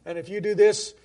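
understated angry-god threat. Acted. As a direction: lay down a warning like a vengeful god. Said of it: "They're usually an angry God".

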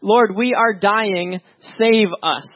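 acted plea with drawn-out "dying"; emphatic panicked plea. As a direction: stretch "we are dying" slowly, word by word. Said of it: "in panic stricken".

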